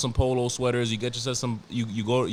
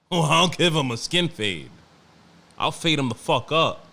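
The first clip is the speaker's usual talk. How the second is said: mock threat; 3 semitones higher, 5 dB louder than usual. Threatening imagined customer.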